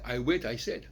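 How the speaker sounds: "wait" and "said" with the ai said as French "è"; French-style ai vowel. Shown as a demonstration. Lecturer on what Germans would never say, French-style vowel. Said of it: "ils prononcent le A I à la française".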